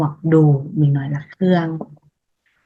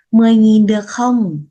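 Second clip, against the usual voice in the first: a bargaining question, louder and higher; haggling ask; 4 semitones higher, 4 dB louder, faster than usual. Acted. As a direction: push the price down like a buyer at the market. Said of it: "Hani thực qua". (người mua mặc cả lớn tiếng)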